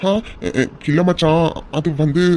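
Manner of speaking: nervous stammer; hesitant, halting excuse; flustered, tense. Acted. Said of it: "இவ்ளோ பதட்டமா இருக்க".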